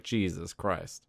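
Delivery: slow, soft, disbelieving mutter; exasperated mutter. Retold or imitated. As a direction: sigh it out in disbelief. Dismayed at teammate's terrible aim.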